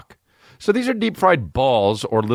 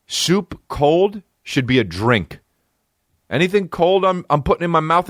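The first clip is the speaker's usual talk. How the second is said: mock grumpy voice; 10 semitones higher than usual. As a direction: drag it out like a grumpy old man. Mock rant, slow odd voice.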